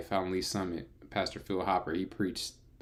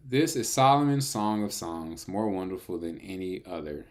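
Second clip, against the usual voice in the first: raised, louder and grand; grand reading; 4 dB louder than usual. Shown as a demonstration. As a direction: read the opening like a proclamation.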